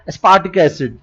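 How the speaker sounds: aspartic एसिड in an American accent with a D-like T; light American accent on aspartic एसिड. Shown as a demonstration. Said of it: "accent में बोला जाएगा तो".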